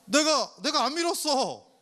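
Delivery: high, loud, flustered protest; a startled Jesus denying he pushed anyone. Pretend. Preacher voicing Jesus to the congregation, high and flustered. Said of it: "예수님도 당황하실 거야".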